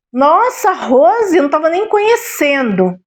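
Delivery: surprised friend. Retold or imitated. Old friend amazed she does not recognise Rose, high surprised voice. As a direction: gasp out the friend's amazement at seeing her.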